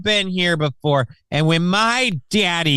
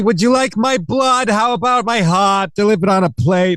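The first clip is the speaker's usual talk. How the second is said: melodramatic lady. Pretend. Hammed-up aggrieved lady.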